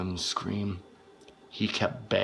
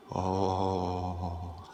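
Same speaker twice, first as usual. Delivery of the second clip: hissed whisper, softer; menacing whisper; 5 dB quieter, slower than usual. Acted. Confessing his revenge, whispered. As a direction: whisper it like a dark secret.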